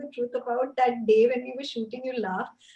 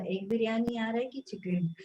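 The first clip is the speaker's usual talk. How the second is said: lightly hushed, voiced mock whisper; imitated whisper; 5 dB quieter than usual. Spot boy asking about food during a shoot, mock whisper. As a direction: imitate someone murmuring behind you, softer. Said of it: "I can hear some whisper saying".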